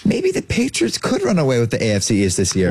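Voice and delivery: mock high-pitched prediction; half-sustained high register. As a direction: lift the start up high, then ease down. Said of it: "he's going high register".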